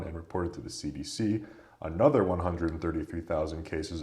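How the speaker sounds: steady news-style read; reading aloud. Acted. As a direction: read the article out evenly. Reads article aloud.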